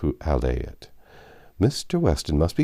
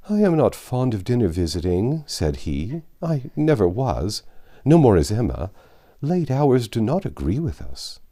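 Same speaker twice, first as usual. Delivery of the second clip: put-on higher, fussy elderly gentleman voice; fretful old father; 6 semitones higher than usual. Anxious father worrying over Emma dining out, fretful old voice. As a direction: fret over late hours and damp air like an anxious old man. Mr Woodhouse fusses over dinner.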